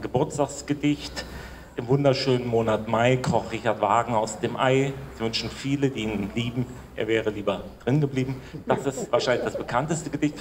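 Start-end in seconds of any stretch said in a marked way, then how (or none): 1.8-8.4 comic verse in a measured voice, settling lower; measured light-verse reading; humorous poem recitation. Acted. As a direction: recite the rhymes deadpan, dropping toward the punchline.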